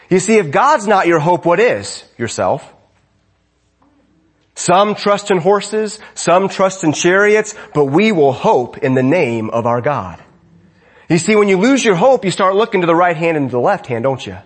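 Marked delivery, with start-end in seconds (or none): 4.6-10.2 slow scripture recitation. Real, not acted.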